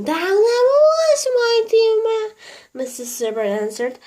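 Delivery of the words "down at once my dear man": eager high call. A narrator's reading. Mrs Silver calls Mr Hoppy down, eager high call. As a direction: urge him down at once.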